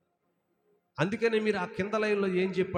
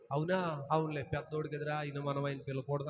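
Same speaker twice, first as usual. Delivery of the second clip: mock meek reply; 4 semitones lower, 4 dB quieter than usual. Mocks a meek blind man's reply.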